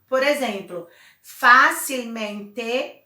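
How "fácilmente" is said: facilmente, very slow, with a strong first syllable; stress on FÁ. Shown as a demonstration. Teacher shows a sobresdrújula, very slow, stressing the start of facilmente. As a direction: draw out facilmente, leaning on fá. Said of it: "o acento é no fá".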